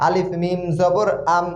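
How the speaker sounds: "আলিফ মিম জবর" spelled out, ending in one syllable "আম"; joined like hasanta. Shown as a demonstration. Teacher combining two letters in pronunciation, spelled-out "আলিফ মিম জবর আম". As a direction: join "আম" with no vowel after the m. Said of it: "উচ্চারণের বেলায় একত্রিত করে".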